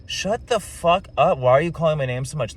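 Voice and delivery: mock-snap, stretching out shut the fuck up; groggy and fed up with his name being called; annoyed retort. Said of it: "my initial thought was like".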